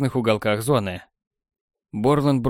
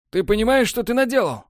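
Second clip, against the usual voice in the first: furious demand; 11 semitones higher than usual. A narrator's reading. Borland confronting Technar, high furious question. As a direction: demand it, outraged.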